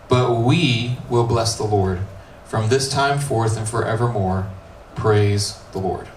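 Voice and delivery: measured Bible reading; scripture reading. Acted. Pastor rereading the line he loves, measured.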